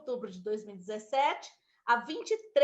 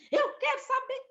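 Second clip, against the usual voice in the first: retold demand; 13 semitones higher than usual. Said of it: "eu dei pitaco mesmo".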